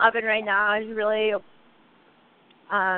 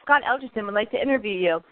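recorded phone-menu voice; lightly imitating a robotic recording; automated voice. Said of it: "a automated voice came up and it was".

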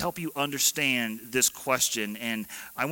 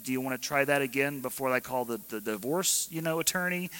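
imagined furious retort; faster than usual. Retold or imitated. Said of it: "I'm guessing it's something like".

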